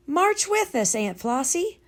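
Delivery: lightly voiced calling child. A narrator's reading. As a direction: call her to join.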